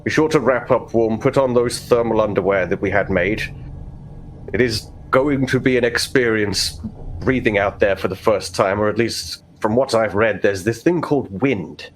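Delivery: a hint of a pompous overseer; overseer father. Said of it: "He goes".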